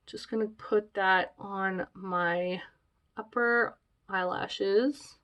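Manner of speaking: stuffy nose from allergies; sniffly, slow and a bit quiet; sniffling. Real, not acted. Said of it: "Sorry about the sniffling".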